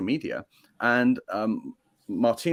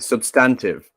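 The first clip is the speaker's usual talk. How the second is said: British accent; 6 dB louder, slower than usual. Shown as a demonstration. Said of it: "I like it with your British accent".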